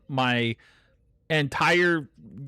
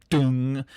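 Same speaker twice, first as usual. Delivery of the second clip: mic hit sound; 4 dB louder than usual. Retold or imitated. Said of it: "Like, you just hear this, like".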